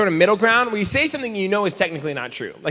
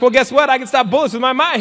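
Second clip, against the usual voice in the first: smug comeback; 7 semitones higher, 5 dB louder than usual. Pretend.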